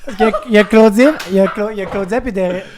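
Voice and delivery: laughing while talking; giggling through names; trying not to laugh. Real, not acted. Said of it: "Je peux pas garder mon sérieux".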